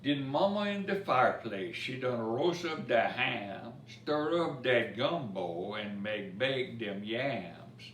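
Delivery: lively storybook reading in Cajun dialect; rhythmic bedtime-story recital; reading a rhymed story. A narrator's reading. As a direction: read the verse to children with a bounce. Reads Cajun Christmas poem aloud.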